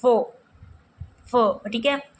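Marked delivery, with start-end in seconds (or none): 0.0-0.3 "फो" said alone as the stressed syllable; teacher's demo of stressed "फो". Shown as a demonstration. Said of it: "इस पर दिया गया है". 1.3-1.6 "फो" repeated alone as the stressed syllable; teacher's repeat of stressed "फो". Shown as a demonstration. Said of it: "इस पर दिया गया है".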